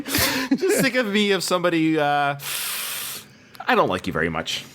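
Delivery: imitating the villain's long loaded pause; mocking dramatic pause. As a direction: drag out the pause before the insult for mock menace. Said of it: "something more poignant to say with that pause".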